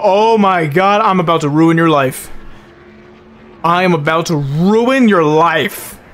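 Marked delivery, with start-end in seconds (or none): 1.0-2.3 angry threat. Real, not acted. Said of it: "I am so mad". 3.6-6.0 slow, deliberate, every word pressed; real seething anger; slow seething threat. Real, not acted. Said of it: "I am so mad".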